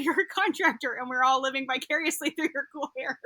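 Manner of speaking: amused, giggly retelling; laughing. Real, not acted. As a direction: let a laugh bubble into the retold quote. Amused retelling, laughing as she quotes.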